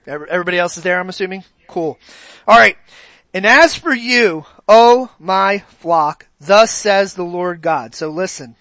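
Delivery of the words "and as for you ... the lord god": slow, solemn Bible reading; scripture reading. Acted. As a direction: read the verse slowly and deliberately. Reading Ezekiel to congregation.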